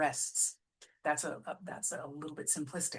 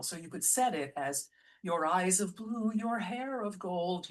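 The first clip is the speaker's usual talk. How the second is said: said as one smooth unbroken phrase; your eyes of blue, your hair of gold flowing as one line; one sweeping phrase; 3 semitones higher, 4 dB louder than usual. Shown as a demonstration. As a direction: run the words together without a break. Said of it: "as one sweeping phrase".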